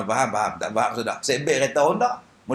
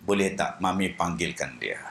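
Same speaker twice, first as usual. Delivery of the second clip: blind man voice; 7 dB quieter than usual. Retold or imitated. Blind Kasim voiced in story.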